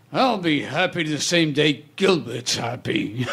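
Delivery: lightly voiced grumbling comedian; imitating Rodney. Quoting a comedian's comeback in the makeup room, lightly imitated. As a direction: give the retort as a put-on comic voice. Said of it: "And he goes".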